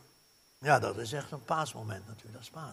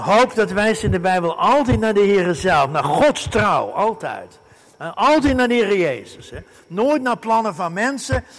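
loud, high emphatic sermon; fervent preaching; 6 semitones higher, 11 dB louder than usual. Acted. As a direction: proclaim hope with force. Preaching at full force. (vurig preken, luid en hoog)

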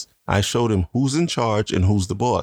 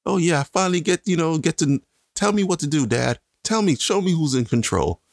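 put-on baby's voice; 7 semitones higher than usual. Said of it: "He's like".

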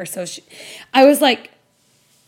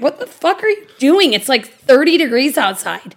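retold outraged yelp, pitched higher; exasperated protest; 3 semitones higher than usual. Wife retells protesting the open car windows, mock-outraged. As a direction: replay your indignant disbelief, voice jumping up.

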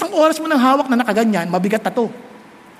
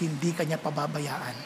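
nearly breathless, soft and much lower; softly promising God won't leave them; hushed assurance; 10 semitones lower, 14 dB quieter than usual. Real, not acted. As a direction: reassure them in a hush.

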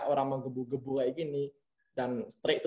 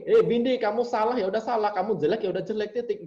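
higher, louder, blunt and direct scolding; mock blunt German scolding, higher and louder; blunt German boss; 7 semitones higher, 4 dB louder than usual. Shown as a demonstration. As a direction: say it flat out with no softening, like a German boss. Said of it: "misal gini".

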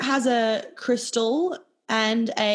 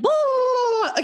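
mock ranting self; 13 semitones higher than usual. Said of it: "And I'll be like".

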